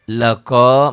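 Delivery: "Laqa" drawn out on the last vowel; slow chanted "Laqa"; natural long vowel. Shown as a demonstration. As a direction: stretch the end of "Laqa" evenly. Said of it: "mad tabi'i".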